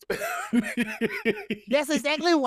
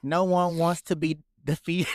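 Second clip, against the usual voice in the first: flat reading of lyrics; 6 semitones lower than usual. Pretend. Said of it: "How you not know he said".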